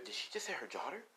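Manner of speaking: hushed, voiced gossip; whispering crowd. A narrator's reading. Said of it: "as everyone's whispering".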